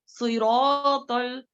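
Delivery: slow सिरातुल, thick ta, lips not rounded; heavy ta. Shown as a demonstration. Teacher showing a heavy ta without rounding the lips. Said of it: "तो को भी जो है मोटा पढ़ना है".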